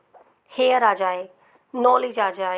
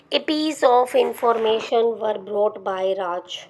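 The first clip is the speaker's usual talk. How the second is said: each word drawn out for students to copy; very slow, even dictation of the example; much slower than usual. Shown as a demonstration. Teacher dictates example sentence.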